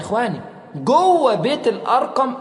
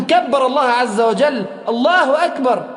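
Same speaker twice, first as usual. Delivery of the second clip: joyful takbir; 5 semitones higher, 4 dB louder than usual. Retold or imitated. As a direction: proclaim it with joy. (تكبير فرح)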